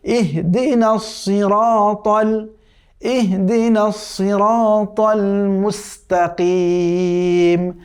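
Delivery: slow, melodic tajweed chant drawn out at the end; chanted Quranic recitation. Shown as a demonstration. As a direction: recite the verse once, slowly, with full tajweed. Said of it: "তো কি হলো?".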